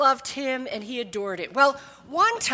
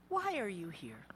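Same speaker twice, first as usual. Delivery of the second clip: softer, low and steady; calm repeat; 5 semitones lower, 14 dB quieter than usual. Retold or imitated. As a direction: repeat the question patiently. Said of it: "took that in calmly".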